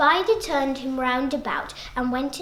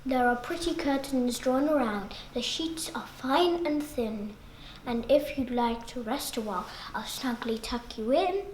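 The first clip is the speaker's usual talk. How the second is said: cunning spider whispering; 3 semitones lower, 6 dB quieter than usual. Acted. Spider whispering to lure the fly onto his bed. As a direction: breathe it like a lullaby trap.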